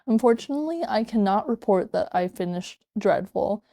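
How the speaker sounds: rain pouring in the background; in heavy rain. Real, not acted. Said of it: "you can hear that rain in the background".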